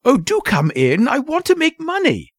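loud, high, impatient demand. A narrator's reading. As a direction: urge them inside, pitch soaring at the end. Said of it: "said the impatient voice".

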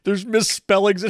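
mock him like he sounds; mock anti-masker. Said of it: "that's what you sound like".

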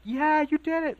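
high, loud supportive yell; imitating the guys shouting support; cheering shout. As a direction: cheer him on like the whole room. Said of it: "They just freak out".

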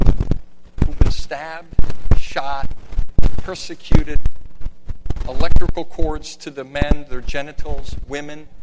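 loud deliberate preaching. Real, not acted. Preacher listing torture loudly.

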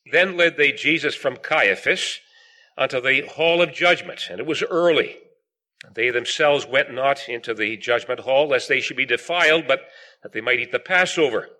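measured, projected Bible reading; scripture reading. Acted. Preacher reading the Gospel of John to the meeting, solemn scripture reading. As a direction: read the verses out firmly to a congregation. Reads scripture aloud to congregation.

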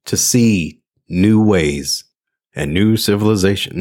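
Star Trek opening. Retold or imitated. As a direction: intone it like the Star Trek intro. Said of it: "That would be Star Trek".

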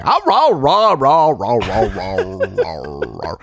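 bark-talk like a chatty retriever; imitating a dog that talks back; talking dog imitation. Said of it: "she will just say".

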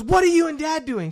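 put-on high, loud little boy's question; kid's voice. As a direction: ask like a curious kid. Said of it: "he goes".

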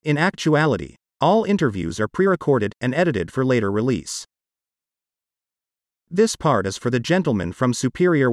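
text-to-speech voice, even and mechanical; computer-generated voice. Real, not acted. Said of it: "my part of this podcast is done with a computer-generated voice".

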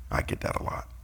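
breathed under the breath; whispered aside. Real, not acted. Preacher whispers a joke aside during the Bible reading. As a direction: slip it in as a secret joke.

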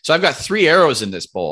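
ordinary talk, nothing marked

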